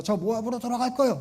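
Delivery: high, upset cry of going home to Moab; tearful threat. Pretend. Ruth tearfully protesting to her mother-in-law, a high upset cry. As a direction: threaten to leave, voice rising into a sob. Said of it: "막 울었을 것 같아요".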